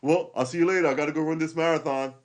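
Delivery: high, loud, cheery mock voice; mock a show-off breezily; hammed-up show-off, high and breezy; smug pest. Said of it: "someone that you hate".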